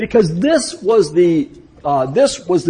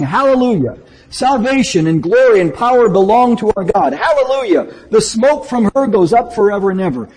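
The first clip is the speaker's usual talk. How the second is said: raised pitch, ringing out each hallelujah; heavenly crowd crying out; 5 semitones higher than usual. Acted. Preacher reading the multitude's cry to the congregation, lifted and ringing. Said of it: "the loud, voice of a great multitude in heaven crying".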